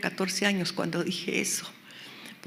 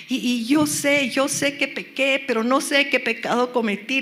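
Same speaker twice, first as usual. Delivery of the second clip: higher, urgent confession to God; pleading, raised-pitch retold prayer; 5 semitones higher, 4 dB louder than usual. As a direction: re-enact pouring out guilt in prayer. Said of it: "Yo empecé a hablarle todo lo que yo sentía".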